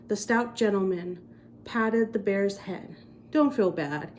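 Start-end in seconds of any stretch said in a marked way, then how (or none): 3.3-4.1 kindly. A narrator's reading. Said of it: "he said in a kindly tone".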